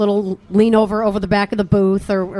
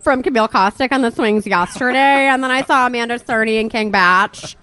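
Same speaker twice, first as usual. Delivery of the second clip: influencer parody. Pretend. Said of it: "continuing influencer parody".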